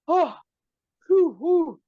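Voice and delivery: high, breathy relieved puffs; mock relieved whew. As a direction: blow out relief after a close escape. The door closes in time.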